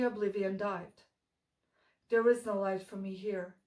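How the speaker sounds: measured dark poetry reading, pausing after each line; solemn gothic verse delivery; poem recitation. Acted. Recites own dark poem after chatty intro.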